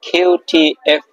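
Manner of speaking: each letter drawn out slowly and clearly; slow letter drill. Shown as a demonstration. Teacher reciting the letters slowly to students, drawn out. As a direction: spell out the letters slowly for the class. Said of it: "আবার একটু repeat করি".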